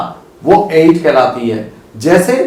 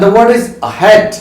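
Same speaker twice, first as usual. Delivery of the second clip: slow announcement of the word; 3 semitones higher, much slower than usual. Shown as a demonstration. Teacher slowly announcing the word of the day. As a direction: stretch out the new word. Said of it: "teacher announces new word".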